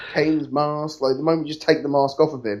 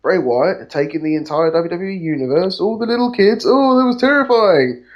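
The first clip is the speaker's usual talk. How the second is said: mock John Cena; 4 semitones higher than usual. Imitating John Cena's interview.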